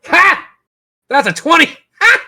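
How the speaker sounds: high, loud gleeful crow of victory; excited laughing cheer; triumphant whoop. Real, not acted. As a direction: shout it out, thrilled by the twenty. GM rolls a natural twenty.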